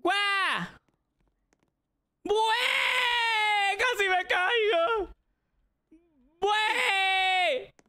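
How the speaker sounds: grito quejumbroso y agudo; grito de susto. Real, not acted. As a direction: casi cae y grita con lloriqueo. Nearly falls in jump game. (grito asustado casi cayendo en el juego)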